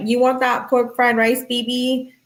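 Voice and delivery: imitating her sugary tone; hammed-up sweet talk to her boyfriend; mock sweet girlfriend. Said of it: "She's like".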